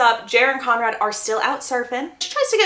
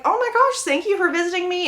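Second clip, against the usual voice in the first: high-pitched gushing thanks; delighted greeting; 7 semitones higher than usual. Retold or imitated. Belly thanking Jeremiah for visiting, delighted. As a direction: imitate a thrilled hostess greeting a visitor.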